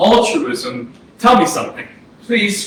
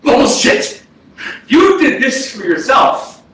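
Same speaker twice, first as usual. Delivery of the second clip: angry retort; 4 semitones higher, slower than usual. Acted. Ghost rejects brother's excuse.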